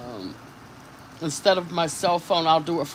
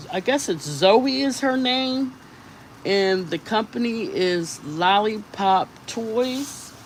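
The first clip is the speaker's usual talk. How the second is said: excited; 4 semitones higher, 5 dB louder than usual. Real, not acted. Excited showing a new find.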